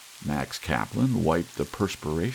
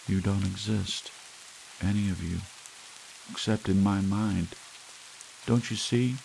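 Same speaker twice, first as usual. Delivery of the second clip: a lightly voiced strange kid, halting, long pauses; unhurried, detached, with long gaps between phrases; eerie young killer; 4 semitones higher than usual. The kid's words, recalled.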